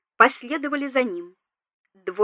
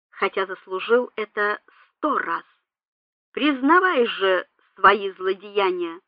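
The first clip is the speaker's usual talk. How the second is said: loud solemn voice. A narrator's reading. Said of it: "громким и торжественным голосом".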